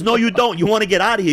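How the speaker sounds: loud, high, insistent overruling; urgent retold warning. Friend drags storyteller out of bar brawl, loud urgent insistence. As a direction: overrule him forcefully amid the chaos.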